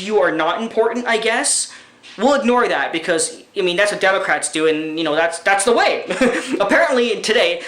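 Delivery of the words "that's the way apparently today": laughing. Real, not acted. Laugh heard.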